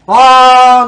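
ordinary talk, nothing marked

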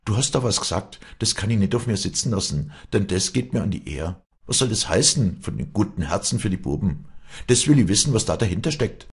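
acted heated challenge, high-pitched; angry challenge. A narrator's reading. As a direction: confront her with wounded honour. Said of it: "zornig herausfordernd an".

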